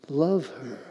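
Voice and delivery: soft but a touch firmer; gently insist, keeping it quiet; tender voice with a slight edge; tender, slightly firmer. Retold or imitated. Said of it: "still tender, but it was a little bit more harsh".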